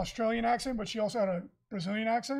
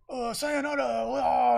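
mock weeb Japanese; 3 semitones higher, 5 dB louder, slower than usual. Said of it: "super weeby people ... try way too hard".

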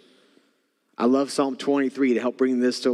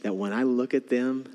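tender God; 4 dB quieter than usual. Acted. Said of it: "God is saying".

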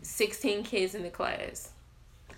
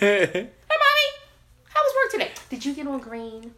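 put-on high little-kid voice, opening louder; little daughter; 5 semitones higher, 5 dB louder than usual. Kid greeting mom after work, high imitated child voice.

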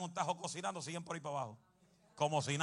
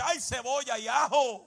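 mock pain yelp; 8 semitones higher, 8 dB louder than usual. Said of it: "Otro quizá dice".

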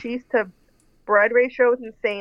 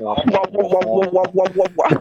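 muffled wah-wah imitation; 3 semitones lower than usual. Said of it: "He was very much like".

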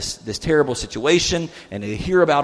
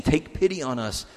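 mild pleading; 2 semitones higher, 3 dB quieter, slower than usual. Retold or imitated. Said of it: "He's begging Jesus at this point".

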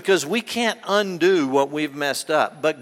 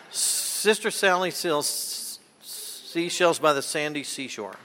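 careful tongue twister; 7 dB quieter than usual. Shown as a demonstration.

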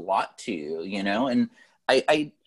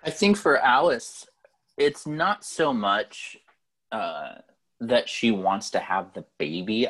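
stoned; 6 semitones lower than usual. Real, not acted. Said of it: "Sorry, I'm high".

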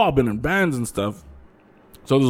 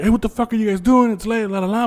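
higher, quick imitation of mom; imitated scolding mom; 6 semitones higher, faster than usual. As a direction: rattle it off like mom scolding the kids. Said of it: "my mom comes out".

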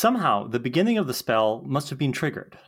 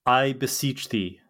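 spell incantation; 3 semitones lower than usual. Acted. Willow casts a spell.

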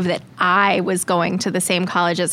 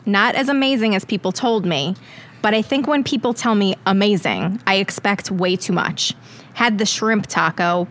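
put-on Long Island accent. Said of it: "bring it back for bad reviews and funny voices".

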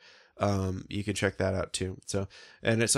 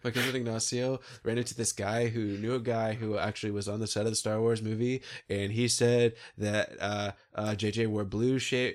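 Luis impression. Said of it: "Michael Pena on the, um, Luis in Ant-Man".

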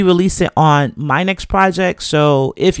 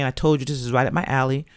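tired, strained voice; voice giving out; 3 semitones lower, 6 dB quieter than usual. Real, not acted. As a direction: voice fading as it goes. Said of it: "I hope I'm not losing my voice".

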